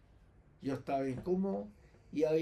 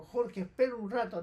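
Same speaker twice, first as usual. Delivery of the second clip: raised call after someone leaving; 6 semitones higher, 4 dB louder than usual. Retold or imitated. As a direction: call him back before he goes. She calls after him leaving.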